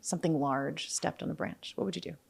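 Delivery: hushed, spooky scene-setting; game master narration. Acted. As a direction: draw the player into the dark forest. DM sets the night-forest scene.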